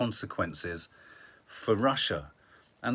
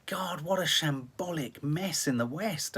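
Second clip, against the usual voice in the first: exasperated whisper; 5 semitones higher than usual. Retold or imitated. Retold Ukrainian reaction, whispered.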